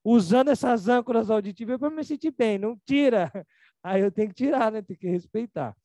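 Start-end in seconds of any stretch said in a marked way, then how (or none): 0.0-3.3 mãe irritada. Retold or imitated. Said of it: "Aí ela fala".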